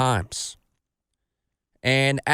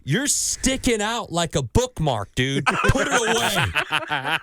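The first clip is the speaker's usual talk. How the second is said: taunting Kevin Bacon, laughing; slower than usual. Retold or imitated. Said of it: "And he goes".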